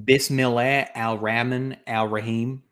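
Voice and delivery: Arabic recited with a deliberate American accent. Shown as a demonstration. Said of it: "speak other languages with American accents".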